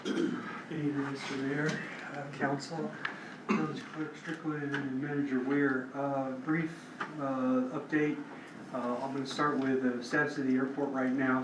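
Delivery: strained, fading voice; hoarse voice giving out. Real, not acted. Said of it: "my voice is disappearing on me".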